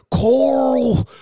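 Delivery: high, loud shouted call of a name; imitating Rick calling out. Imitating Rick from Walking Dead yelling for his son, loud and high. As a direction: yell the name across the yard like Rick. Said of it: "you got Rick out there".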